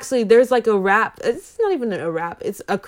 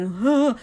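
frightened gasp; 4 semitones higher than usual. Acted. Acts out campers freaking out, scared.

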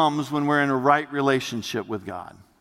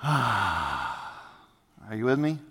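soft and slow; 7 semitones lower, 7 dB quieter, much slower than usual. Real, not acted. Soft check-in after imagery.

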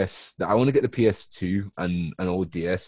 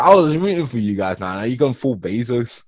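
mock outraged; 3 semitones higher, 7 dB louder than usual. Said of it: "I was like".

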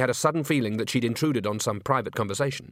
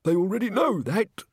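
high, peeved whine; annoyed; 9 semitones higher than usual. A narrator's reading. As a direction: complain that your story is being stolen. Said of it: "in a rather annoyed voice".

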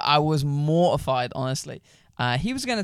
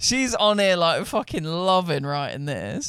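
gleeful teasing; 5 semitones higher than usual. Real, not acted. Host gleefully ribs the writer.

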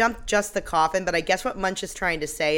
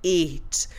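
Eat drawn out, not raised; suggestive stress on Eat; 2 semitones lower than usual. Retold or imitated. Mimicking Monique's innuendo, Eat stretched out suggestively. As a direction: linger on Eat as pointed innuendo. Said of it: "she says it like that".

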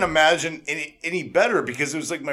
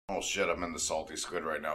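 soft, low, laughing awe; amazed hush with a laugh; 8 semitones lower, 11 dB quieter than usual. Retold or imitated. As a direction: whisper it like you just arrived there. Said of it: "it was like".

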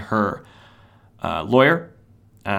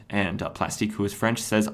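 ordinary talk

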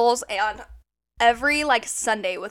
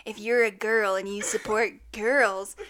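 slow, soft kidnapper invite; creepy recruiter; 4 dB quieter than usual. Retold or imitated. Mocking the cohost's invite to the group as a creepy, slow kidnapper. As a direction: lure them in slowly like a van kidnapper. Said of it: "That's what she sounds like".

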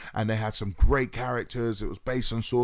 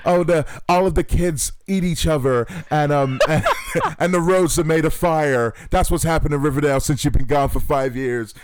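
loud, quick, dramatic narrator voice; hammed-up doom announcement, louder; mock narrator; 3 semitones higher, 5 dB louder than usual. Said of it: "she was, like, a".

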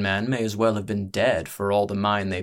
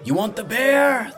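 high, loud ringmaster's bellow; drawn-out showman's shout; 7 dB louder than usual. A narrator's reading. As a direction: work up the crowd with a bellowed question. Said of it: "the ringmaster bellowed".

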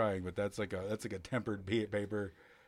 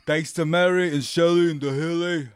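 shouting out; 9 semitones higher, 14 dB louder than usual. Real, not acted. Loud shout-out thanks.

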